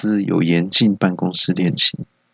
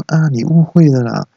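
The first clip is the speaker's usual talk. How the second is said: female colleague voice; 4 semitones higher than usual. Acted.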